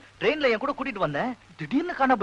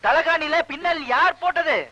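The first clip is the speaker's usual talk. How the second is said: slow, high-pitched, as if to someone hard of hearing; laboured, exasperated repeat of the question; spelling it out; 7 semitones higher than usual. Acted. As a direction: project each word of "தலைகாணியில பின்னல் யார் போட்டது" slowly. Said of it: "loud speaker வாங்கணும்".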